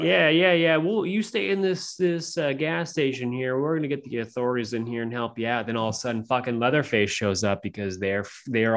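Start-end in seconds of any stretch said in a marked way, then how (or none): 0.0-5.7 higher-pitched Texas local voice; put-on Texas gas station reassurance; Texas accent. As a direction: play a falsely helpful Texan. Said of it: "give me a Texas real quick".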